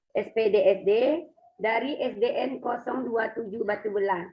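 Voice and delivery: slightly hoarse, scratchy throat. Real, not acted. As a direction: talk through a bit of a sore throat. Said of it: "suara saya agak serak ya".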